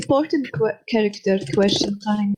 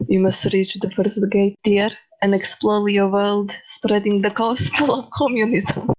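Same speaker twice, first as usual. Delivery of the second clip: Karl Marx voice. Acted. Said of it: "really shitty man voice".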